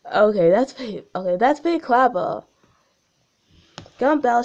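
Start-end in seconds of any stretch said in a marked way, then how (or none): 4.0-4.4 shouted. Acted. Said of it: "she shouted".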